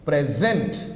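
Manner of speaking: "present" said in two measured beats, low-pitched; "present" pronounced deliberately to show its stress; stress demo. Shown as a demonstration. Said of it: "here you get that stress".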